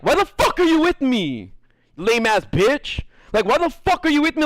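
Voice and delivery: high, exasperated mock outburst; exasperated rant. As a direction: vent at her like she's let you down. Imagined angry rant at girlfriend.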